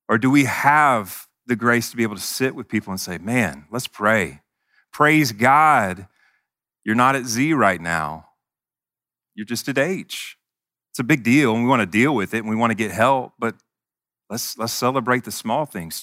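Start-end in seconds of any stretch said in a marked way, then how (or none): 3.2-10.4 gentle. Pretend. Gracious reply to a struggling friend.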